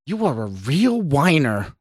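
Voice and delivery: sneering put-down; snarl. A narrator's reading. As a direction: snarl it back as an insult. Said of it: "the stranger snarled back".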